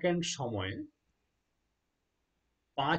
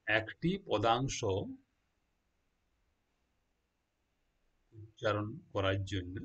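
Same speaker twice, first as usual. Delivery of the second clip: "একটি পদাংশ" drawn out very slowly, each syllable separate; teacher slowing right down so students catch it; slow and deliberate; 4 semitones lower, slower than usual. Shown as a demonstration. Teacher spelling out a phrase for students, slow and deliberate. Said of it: "তাহলে একটি পদাংশ উচ্চারণ করার জন্য".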